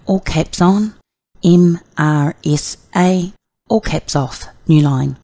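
careful dictation with punctuation commands; dictating. Shown as a demonstration. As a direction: say each command clearly to the software. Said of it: "So you could say".

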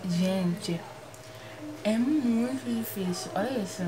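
slushy sh for s from new braces; lisping. Real, not acted. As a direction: talk with a lisp around the braces. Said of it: "olha como eu tô falando".

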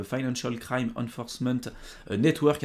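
a light English accent on the agency name, half joking; self-mocking English accent. Shown as a demonstration. Explaining a US regulator to viewers, in a light English accent. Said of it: "avec mon super accent anglais".

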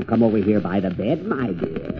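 soft sly grandma imitation; wolf faking grandma. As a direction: coo like a fake granny. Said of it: "I'll talk just like Grandma".

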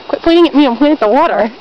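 annoyed. Real, not acted. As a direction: snap at the cameraman. Snaps at friend filming.

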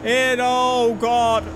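loud, high frantic urging; frantic yelling. Real, not acted. Gamer urging the car over the line, loud and high. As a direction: scream go at the car. Final stretch of race.

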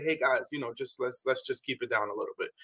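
soft, tactful hushing of friends; gentle request. Retold or imitated. Voicing polite request to noisy friends.

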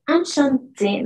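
enchanté slow, nasal an, final té held; French enchanté. Shown as a demonstration. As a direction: model enchanté slowly. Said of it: "le vamos a agregar una E".

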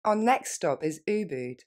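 natural quick pace. Shown as a demonstration. Teacher modelling for students, quick natural. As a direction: say it quickly, like a native. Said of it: "Et plus rapidement".

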